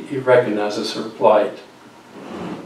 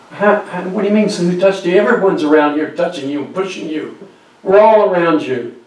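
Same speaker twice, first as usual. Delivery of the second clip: fast, higher disbelieving protest; incredulous protest; 5 semitones higher, 3 dB louder than usual. Acted. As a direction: brush it off as absurd. Disciples protest to Jesus.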